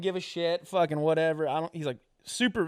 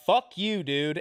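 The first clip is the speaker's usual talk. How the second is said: higher, louder mock outrage; retold angry rebuff; 4 semitones higher, 3 dB louder, much slower than usual. Offended comic to the joke teller before walking away, mock angry. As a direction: imitate an offended snap, pitched up.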